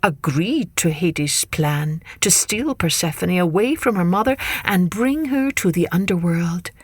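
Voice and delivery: measured, expressive myth telling; story narration. A narrator's reading. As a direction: tell it to children, lingering on key words.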